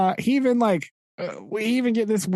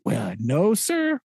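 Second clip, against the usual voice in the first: meek sailor voice; slower than usual. Retold or imitated. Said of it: "He's like".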